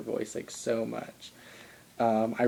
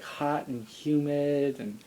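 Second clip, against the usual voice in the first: slow sultry quote; 2 semitones higher, much slower than usual. Retold or imitated. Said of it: "and he was like".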